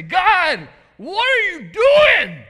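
yelling at God. Pretend. Pastor voicing a frustrated believer, yelling up at God. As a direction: yell it up at heaven, exasperated. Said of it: "you just want to yell to God".

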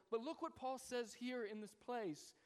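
ordinary talk, nothing marked

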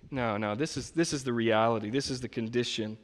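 quiet, earnest correction; God's gentle correction. Retold or imitated. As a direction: gently lay out the truth. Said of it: "God's telling you".

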